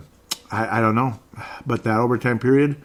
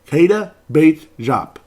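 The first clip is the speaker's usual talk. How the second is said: drawn-out name call; 4 semitones higher, 6 dB louder, slower than usual. Acted. Calling out player's name.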